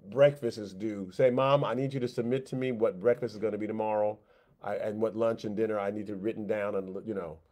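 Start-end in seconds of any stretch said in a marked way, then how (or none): 1.3-7.4 put-on demanding little kid. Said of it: "a little kid".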